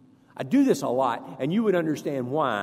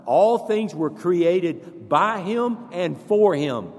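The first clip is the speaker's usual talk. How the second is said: slow and louder, building; repeating it louder with the congregation, slow and forceful; louder recitation; 3 semitones higher, 5 dB louder, slower than usual. Shown as a demonstration. Louder, slow recitation. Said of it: "One more time".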